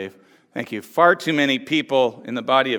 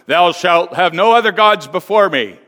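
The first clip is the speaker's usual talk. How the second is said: booming voice from sky; 6 dB louder than usual. Retold or imitated. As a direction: voice of God, a bit louder. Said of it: "God's voice booms out".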